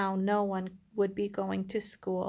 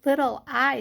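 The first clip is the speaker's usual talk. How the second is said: loud, higher-pitched teacher's call; 5 semitones higher, 9 dB louder than usual. Acted. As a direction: call the little one to attention, storybook style. Teacher letter calls little I.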